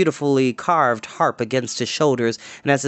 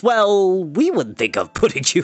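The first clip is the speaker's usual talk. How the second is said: higher, fluttering polite excuse; nervous bard; 6 semitones higher than usual. A narrator's reading. Bard declining Dorath's escort, higher nervous voice. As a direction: babble politely to get away.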